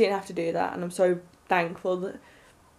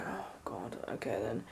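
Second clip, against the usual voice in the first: a low, much softer, overwhelmed "Oh, God, okay then"; stunned hush; 9 semitones lower, 13 dB quieter than usual. Retold or imitated. Overwhelmed teen finally accepting the free print, hushed and low. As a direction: let it slip out softly, lost for words.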